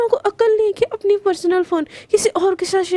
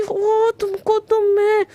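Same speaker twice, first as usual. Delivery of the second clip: sputtering threat; 3 semitones higher, much slower than usual. Acted. Girl sputters threat at rival.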